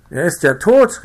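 high, loud shocked call; crying out in alarm. A narrator's reading. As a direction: blurt out the horror. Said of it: "rief ich".

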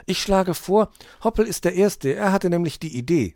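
put-on a young fox proposing fairly; eager child. A narrator's reading. Weißohr suggests Hoppel goes first, eager. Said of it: "sagte Weißohr".

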